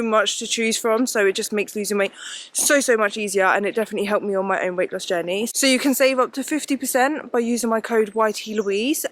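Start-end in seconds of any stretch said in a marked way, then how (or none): 5.5-9.1 breathless from climbing a hill; out of breath while walking. Real, not acted. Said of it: "I'm out of breath already walking up this hill".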